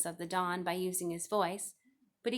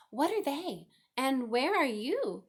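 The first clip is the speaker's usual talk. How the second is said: high, loud desperate shout; screaming; 6 semitones higher, 4 dB louder, slower than usual. A narrator's reading. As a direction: yell it out into the barn. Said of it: "screamed Wilbur".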